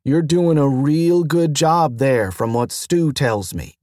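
gentle reassuring praise; calm him down kindly; soothing. Acted. Mentor soothing the anxious station, gentle and reassuring. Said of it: "Tali said soothingly".

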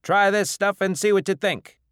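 high, loud, hearty invitation; bar owner calling. Acted. Bar owner offering shots of new liquor, loudly calling. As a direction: urge the whole bar to try it.

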